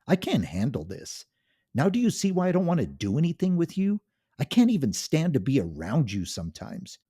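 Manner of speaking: loud, high, contemptuous yelling; a wife screaming her disgust at her husband; shouting at the top of her lungs. Acted. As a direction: tear into him with full-volume scorn. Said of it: "she shouted at the top of her lungs".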